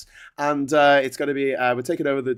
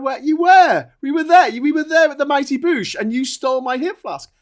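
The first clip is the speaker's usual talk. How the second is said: higher and louder, mock drunken accusing shout; retold drunken accusation; 10 semitones higher, 3 dB louder than usual. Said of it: "And I went".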